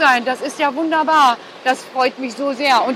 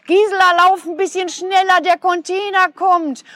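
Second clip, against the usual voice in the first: calling out; 5 semitones higher than usual. Real, not acted. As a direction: shout across to hurry her. Ruft der rennenden Gisela zu. (ruft laut und hoch der Kollegin zu)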